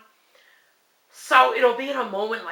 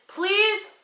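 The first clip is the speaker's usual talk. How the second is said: firm plea; 3 semitones higher than usual. Retold or imitated. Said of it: "I said out loud".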